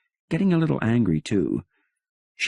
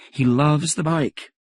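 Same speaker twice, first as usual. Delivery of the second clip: higher excited Helen; Helen's voice; 9 semitones higher than usual. Acted. Helen reporting the son's joy, higher and excited. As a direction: chirp it like a delighted wife.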